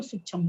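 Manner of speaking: full chha in sukshma, final vowel lost; wrong sukshma as "sukchham". Shown as a demonstration. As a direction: mispronounce sukshma as "suk-chham". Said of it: "उसमें छ पूरा हो जाता है".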